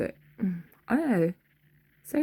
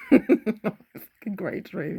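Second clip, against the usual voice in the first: slow, laughing through the words; laughing quote; 3 semitones higher, 4 dB louder, much slower than usual. Retold or imitated. Son recalling his dream, laughing slowly. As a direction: chuckle it out slowly. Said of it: "he said".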